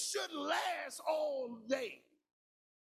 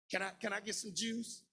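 put-on a lower, small voice of a scared kid asking; timid child voice; 6 semitones lower than usual. A scared child asks a parent for juice in a lightly voiced timid way.

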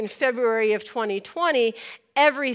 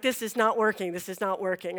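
inner despair; 5 semitones lower, 7 dB quieter than usual. Retold or imitated. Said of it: "I'm like".

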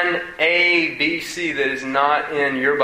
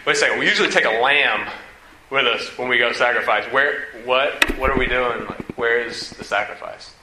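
put-on hushed, half-whispered confused boy; lightly voiced puzzled Isaac; 3 semitones lower than usual. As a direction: puzzle it out like a wary kid. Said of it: "And Isaac's like".

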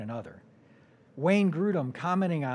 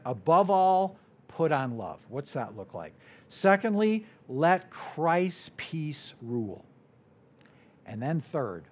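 normal talking voice

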